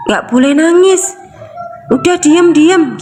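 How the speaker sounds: insistent imitated hushing; parent hushing child. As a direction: imitate a parent ordering tears to stop. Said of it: "orang tua tuh bilang begini".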